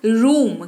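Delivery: रूम with weight on a long "oo"; emphatic teacher's रूम, "ROOOM"; stressed long "oo". Shown as a demonstration. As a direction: lean into the drawn-out vowel of रूम. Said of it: "जरा जोर पड़ेगा शब्द पर".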